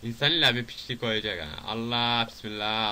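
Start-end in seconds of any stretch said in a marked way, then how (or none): 1.7-2.9 slow invocation at normal volume; drawn-out exclamation. Real, not acted. Player bracing at a game hazard, drawn-out exclamation. Repeated exclamation, first take milder.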